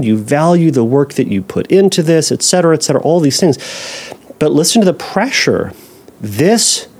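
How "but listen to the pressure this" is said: ordinary delivery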